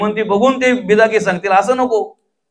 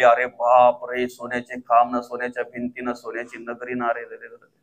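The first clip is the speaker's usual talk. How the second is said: awed wonder; 6 semitones lower, 7 dB quieter than usual. Acted. Ravan gapes at golden city.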